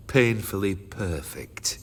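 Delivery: slow breathy whisper. Acted. Jaded collector judging his statue, whispered slowly. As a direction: let it fall away to a whisper.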